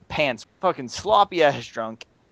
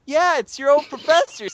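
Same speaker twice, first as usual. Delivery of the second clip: professor voice; 11 semitones higher than usual. Retold or imitated. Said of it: "voicing the professor".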